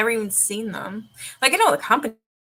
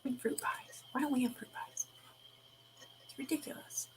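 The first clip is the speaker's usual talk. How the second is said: whisper; 7 semitones lower, 18 dB quieter than usual. Real, not acted. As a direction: breathe the words with no voice. Whispering while reading search.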